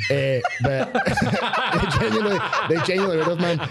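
words broken up by real laughter; can't get it out for laughing; laughing while talking. Real, not acted. To friends about the terrible gig, laughing.

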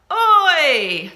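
loud, high oi, falling away; playful shout to get someone's attention; calling out. Shown as a demonstration. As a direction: holler it at a grown-up. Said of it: "Can you say oi to your grown-up?".

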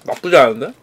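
talking between bites; eating while speaking; mouth full, chewing. Real, not acted. Seen 0: Mouth moving with chopsticks at food; eating through whole stretch.

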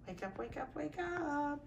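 high soft sing-song coaxing; high coaxing singsong. Real, not acted. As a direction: coo wake up softly in a high voice. Coaxing sleeping puppy.

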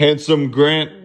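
high, slow, loud coo; puppy voice. Pretend. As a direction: call the puppy sweetly. Calling to the puppy.

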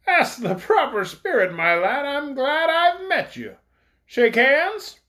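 a bold villain welcoming a recruit; big voice. A narrator's reading. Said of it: "in a big voice".

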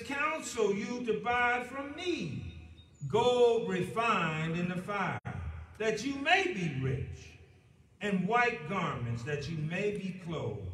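fervent pulpit reading; preaching scripture. Acted. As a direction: build it like a sermon and let it settle.

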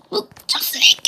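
breathy whisper, falling at the end; whispered question. Pretend. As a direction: whisper it and let it drop. Second take, breathy.

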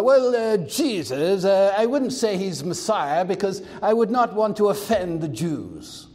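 a hint of a timid English cleric, trailing off; lightly voiced English vicar hedging his words; mock English accent. Preacher mocking a TV cleric in English accent. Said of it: "with an English accent".

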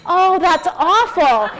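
supportive sympathy. Retold or imitated. Daughter imitating the supportive response she hoped for, mock sympathy. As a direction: coo it slowly like an imagined supportive mother. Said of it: "It was not the supportive".

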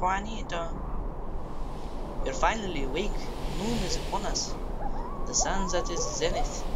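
put-on light Mexican accent reading lines. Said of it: "I'm gonna try to do a Mexican accent".

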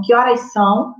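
"Que horas são?" with a rising question tune; question intonation. Shown as a demonstration. Teacher showing the class how a direct question sounds. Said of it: "Você faz aquela entonação".

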